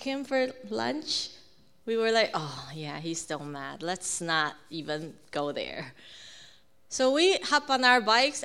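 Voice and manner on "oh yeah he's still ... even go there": low, soft aside, retold; cautious hush. Hungry family avoids asking mad dad for lunch, cautious hush. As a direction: keep it down so he won't hear. Didn't dare ask him for lunch.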